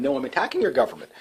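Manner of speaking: usual speaking voice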